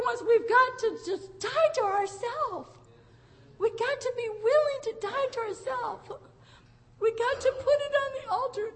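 a cry in the voice, pleading; tearful plea. Real, not acted. Preacher urging dear ones to die to themselves, tearful plea. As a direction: beg them with tears in the voice.

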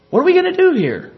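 high-pitched mock worry; excited, fearful servant. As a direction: act out a mildly panicked question. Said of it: "Rather excited, full of fear".

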